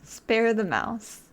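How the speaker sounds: low, stretched, stubborn repeat; slow low defiance. Real, not acted. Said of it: "repeating choice again".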